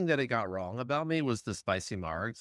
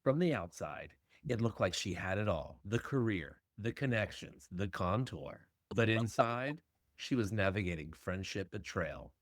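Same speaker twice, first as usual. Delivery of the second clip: horror trailer voice; 3 semitones lower, 5 dB quieter than usual. Acted. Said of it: "Dramatic movie trailer voiceover".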